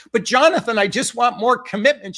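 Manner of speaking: hammed-up screaming client; mock scream. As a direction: shout the word commitment at him. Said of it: "She kept screaming it".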